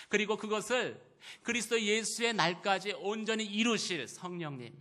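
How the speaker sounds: high, loud proclamation from the pulpit; forceful preaching. Real, not acted. (높고 힘차게 선포하는 설교)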